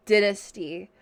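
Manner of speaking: Scottish "dynasty" with a short i, as in din; Scottish-accented "dynasty", short first vowel. Shown as a demonstration. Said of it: "the Scottish accent would say it like".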